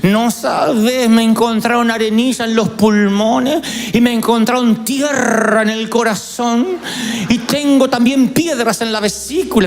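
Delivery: drawn-out self-pitying lament, lightly voiced; whiny aunt. Niece hears the aunt's ailments, mock whiny lament. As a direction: moan like a gossipy aunt listing her ailments. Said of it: "decía".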